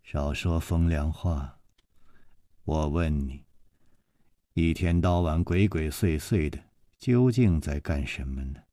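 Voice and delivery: lady's stern interrogation; sharp young wife. A narrator's reading. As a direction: demand an answer suspiciously. A woman's voice in the story.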